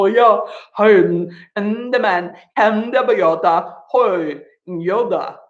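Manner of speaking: playful nonsense babble; silly gibberish chatter; laughter yoga gibberish. Shown as a demonstration. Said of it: "practicing that gibberish".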